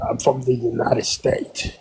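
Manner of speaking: a fake accent, held steady; trolling the room in a put-on voice. Caller trolling the room about Charlie Kirk, put-on accent. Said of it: "not with that accent".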